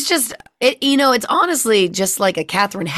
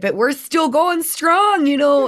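Janeway voice; 6 semitones higher than usual. Acted. S1 plays along in Janeway voice.

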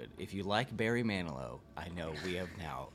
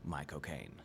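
Michael Caine impression; 4 semitones lower, 5 dB quieter than usual. Shown as a demonstration. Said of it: "the easiest impression ... is Michael Caine".

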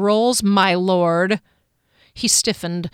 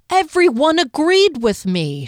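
high, slow and defiant; indignant Kier; 8 semitones higher, 4 dB louder than usual. Acted. Kier to Derry during their argument, high and slow. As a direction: Kier insisting she was right, drawn out.

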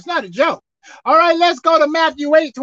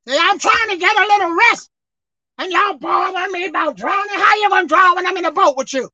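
high, scolding, put-upon complaint; irritated Lord; 6 semitones higher than usual. Retold or imitated. Jesus chiding the disciples for waking him, high irritated scolding. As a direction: grumble at them for waking you.

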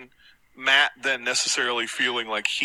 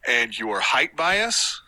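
mock defiant; 6 semitones higher, slower than usual. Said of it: "but I will now say it".

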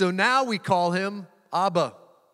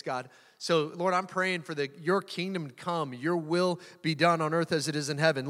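softer, hushed prayer of surrender; quiet prayer; 3 dB quieter than usual. Shown as a demonstration. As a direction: pray it softly, almost to yourself.

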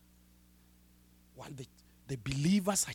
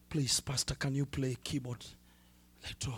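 whispering; 6 semitones lower, 7 dB quieter than usual. Real, not acted. Quick aside to pastor.

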